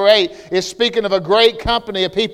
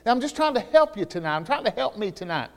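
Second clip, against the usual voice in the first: normal talking voice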